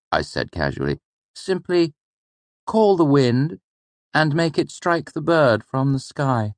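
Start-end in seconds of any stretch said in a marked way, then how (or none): 1.4-6.5 put-on much higher, keen boy's voice; a higher character voice for the boy; voiced young student Elir. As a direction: answer like an eager clever pupil. Elir tries a bold answer.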